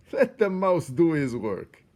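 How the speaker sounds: high loud commanding rat voice; amused rat boss. A narrator's reading. Botticelli orders the jostling rats back. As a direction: wave them back with glee. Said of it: "still laughing".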